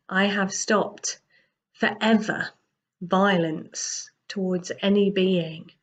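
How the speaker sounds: serene, unhurried reassurance; gentle. Acted. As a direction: speak like a calm teacher easing a frightened man. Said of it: "Buddha very gently says".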